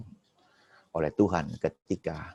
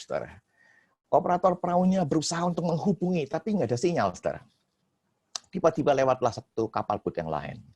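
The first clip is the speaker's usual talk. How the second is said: ordinary delivery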